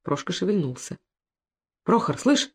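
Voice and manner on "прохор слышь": lightly voiced, gentle concern. A narrator's reading. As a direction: soldier gently asks the downed friend if he lives. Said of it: "спросил служивый с участием".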